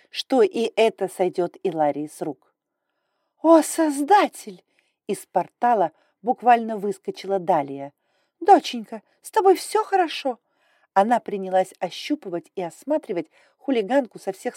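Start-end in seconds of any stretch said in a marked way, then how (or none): 3.4-4.6 alarmed mother. Acted. 8.4-10.4 anxious mother. Acted. Mother fussing over daughter.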